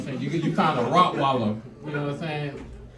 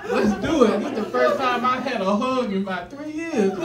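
laughing; 7 semitones higher, 4 dB louder, slower than usual. Retold or imitated. Acting the happy release.

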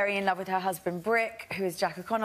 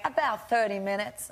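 put-on Southern US accent. Retelling an Uber driver's reply, imitated Southern accent. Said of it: "doing the accent of the play".

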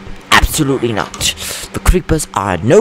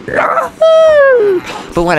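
laughing through words; 4 dB louder than usual. Real, not acted. Slow laughing.

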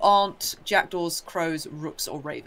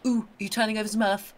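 lightly voiced robin, rising higher and higher; a nosy little bird hoping for worms, asked higher each time; eager robin; 5 semitones higher than usual. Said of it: "they're like".

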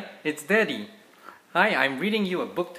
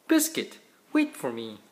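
calling out. Acted. Calling after running puppy.

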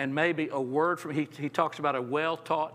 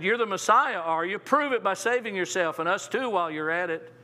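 scoffing criminal; 2 semitones higher than usual. Retold or imitated.

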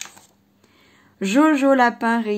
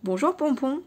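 gloomy voice; 3 semitones higher than usual. Acted. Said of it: "dit-il d'une voix morne".

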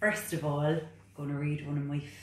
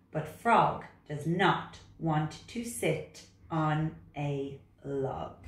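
put-on reading to children; slower than usual. A narrator's reading. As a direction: lilt each rhyme slowly for small children.

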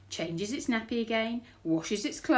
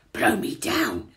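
low, loud, slow exclamation; deep flabbergasted burglar; astonished burglar; 5 semitones lower, 8 dB louder, slower than usual. A narrator's reading. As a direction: stretch it out in shock. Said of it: "said Burglar Bill".

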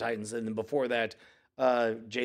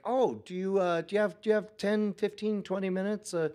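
eager dad pitch; 5 semitones higher than usual. Retold or imitated. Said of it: "And I was like".

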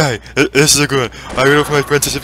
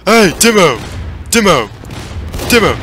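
calling out; 3 semitones higher than usual. Real, not acted. Calling out to teammate.

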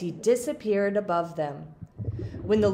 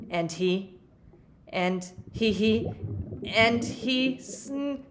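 building up to a sneeze; slower than usual. Acted. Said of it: "and he sneezed".

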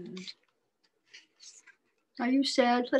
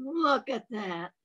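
tender loving. Shown as a demonstration. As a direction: coo over the fish.

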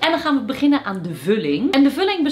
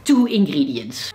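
mock English echo; 7 semitones lower, slower than usual. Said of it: "echoing the clip".

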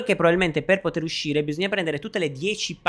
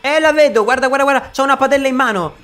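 excited alarm; 8 semitones higher, 5 dB louder than usual. Real, not acted. Spots the monster nearby.

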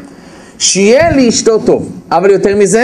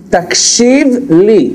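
slow; much slower than usual. Shown as a demonstration.

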